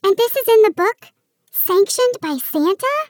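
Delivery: high, disbelieving elf voice, climbing; can't believe what she's hearing; incredulous elf. Acted. Elf Pixie aghast at dusting the house with glitter, rising disbelief.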